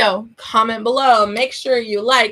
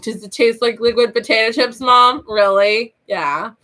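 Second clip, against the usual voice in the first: teasing. Retold or imitated. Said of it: "We would be like".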